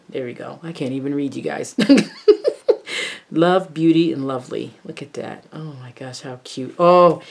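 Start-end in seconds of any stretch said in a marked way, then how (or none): 1.8-3.2 laugh. Real, not acted.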